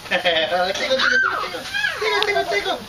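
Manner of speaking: playful laughing tickle chant; giggly high-pitched teasing. Real, not acted. Father tickling child, laughing.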